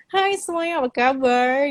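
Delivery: high, lazy South Jakarta drawl; mock a South Jakarta teen, mouth barely open; Jaksel style. Mocking South Jakarta youth greeting, high lazy drawl. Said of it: "kayak anak Jaksel".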